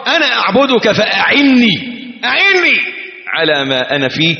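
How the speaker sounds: urgent supplication; pleading prayer. Pretend. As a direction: beg for help. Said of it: "كأنك بتقول له".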